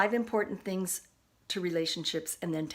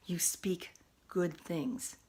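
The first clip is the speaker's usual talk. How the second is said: whisper; much slower than usual. Real, not acted. Soft aside about speaking well.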